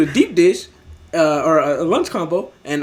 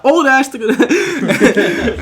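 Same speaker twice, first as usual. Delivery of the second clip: 1 drawn-out nickname; 7 semitones higher, 7 dB louder, much slower than usual. Real, not acted. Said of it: "That's what I'm calling the whole time".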